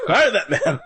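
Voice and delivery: a playful hint of a frantic sitcom guy announcing the hire; George Costanza impression. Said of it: "it's like George Costanza".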